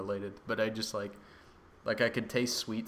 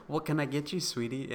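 flirty waitress; 5 semitones higher than usual. Retold or imitated. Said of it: "she was like".

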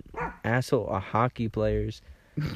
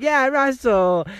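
high, loud, drawn-out mock voice; imitating cruise worker; 13 semitones higher, 7 dB louder, much slower than usual. Cruise worker drawing out his name, high mock voice. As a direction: stretch his name out like she's scolding. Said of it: "She's like".

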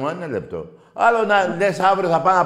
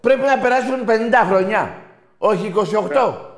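loud, high, heated shouting at the caller; 8 semitones higher, 6 dB louder than usual. Real, not acted. Host shouting at the caller over football, loud and heated. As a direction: shout him down, full voice. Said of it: "Καταρχάς, μη φωνάζεις".

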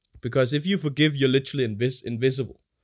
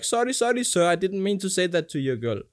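mock apologetic driver; 5 semitones higher than usual. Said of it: "the guy would be like".

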